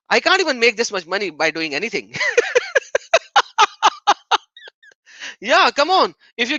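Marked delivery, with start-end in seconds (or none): 2.2-4.4 a burst of very high laughter; shrill high laugh. Real, not acted. Streamer laughing at the donations, very high. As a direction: cackle up high in delight.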